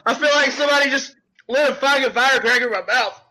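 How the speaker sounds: talking through real tears; teary. Real, not acted. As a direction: voice tight with tears. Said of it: "I got tears in my eyes".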